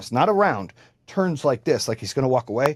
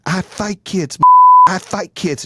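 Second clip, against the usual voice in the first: angry mom; 7 semitones higher, 8 dB louder, much slower than usual. Retold or imitated. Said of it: "the mom starts saying".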